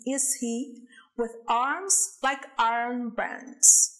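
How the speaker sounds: slow, measured reading of the verse; careful English verse reading; poem recitation. Shown as a demonstration. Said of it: "Vamos agora a um exemplo".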